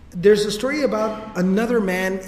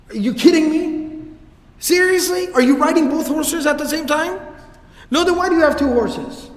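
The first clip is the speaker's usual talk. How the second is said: exasperated rebuke; 8 semitones higher, 5 dB louder than usual. Retold or imitated. Abu Dharr reprimanding a rider.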